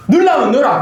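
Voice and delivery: high-pitched, hammed-up dare; mock defiant retort. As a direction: throw it back at them, playfully defiant. Acting the retort he wanted to give.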